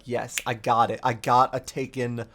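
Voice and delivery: deadpan grumble about the gift; sarcastic Savathun. Retold or imitated. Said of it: "And she's like".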